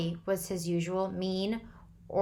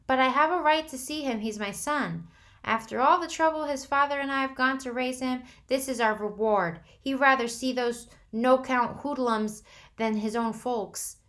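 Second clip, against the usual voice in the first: high, loud indignation; indignant mother; 6 semitones higher, 5 dB louder than usual. A narrator's reading. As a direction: demand your rights.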